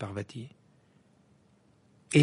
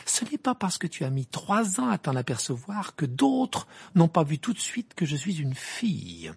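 raised-pitch retort; indignant; 6 semitones higher than usual. Acted. Hermione insisting others noticed she is a girl, indignant. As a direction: hurl the reproach back at him.

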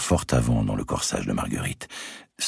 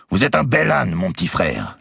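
much louder, higher angry yell; shouting; 8 semitones higher, 4 dB louder than usual. Acted. Robert insulting the chaplain, loud angry yell. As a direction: bawl out the priest. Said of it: "lui cria-t-il".

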